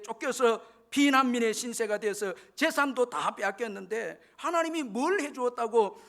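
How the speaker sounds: mildly acted resentful protest; angry complaint. Blind son complaining to his mother about God, mild acted anger. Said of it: "어머니에게 화를 내면서".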